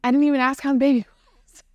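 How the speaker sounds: fast and giggling; laughing. Real, not acted. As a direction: laugh it out, rushed. Laughing at herself after birth.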